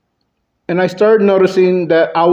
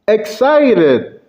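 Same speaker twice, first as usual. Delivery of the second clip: pitched-up, drawn-out excitement; excited; 5 semitones higher than usual. Shown as a demonstration. Speaker demonstrating a range of emotions, high and excited. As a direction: leap up with excitement. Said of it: "you can have a range of emotions".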